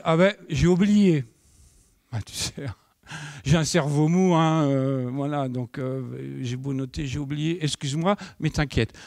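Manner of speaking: lightly voiced sheepish excuse; sheepish colleague. Colleague admitting he forgot, mild sheepish voice. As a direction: shrug it off, half laughing. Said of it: "il me dit".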